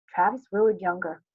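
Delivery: ordinary delivery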